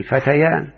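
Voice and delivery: فتيان said "fatayan", the ya restored clearly; فتيان as the teaching example; dual form shown. Shown as a demonstration. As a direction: show فتيان with the ya brought back. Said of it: "زي كلمة فتى أقول".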